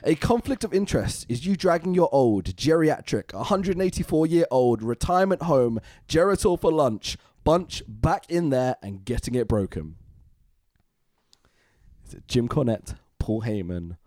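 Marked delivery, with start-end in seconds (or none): 0.0-10.0 rough, gravelly reading voice. Real, not acted. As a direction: read it through a gravelly throat. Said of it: "Let's see if my gravelly voice can do this".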